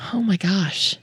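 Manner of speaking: breathy whispered awe. Real, not acted. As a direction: whisper it in amazement. Whispered amazement.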